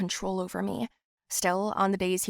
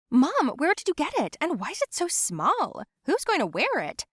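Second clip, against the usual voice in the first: sister's voice; 8 semitones higher than usual. Acted. Sister Anne questions mother.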